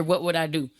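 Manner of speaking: whispered to himself; whispered thought. Retold or imitated. He whispers his private fear of danger. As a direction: whisper the worry under your breath.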